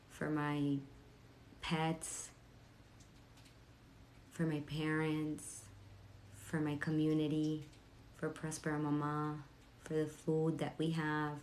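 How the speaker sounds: soft, slow gratitude meditation voice; soft guided meditation read. Acted. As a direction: guide them gently into thankfulness.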